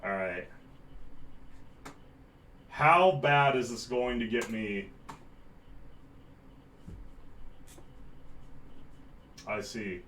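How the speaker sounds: distant voice down the hall; talking from the next room over; from another room. Real, not acted. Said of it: "so you can hear me in the other room".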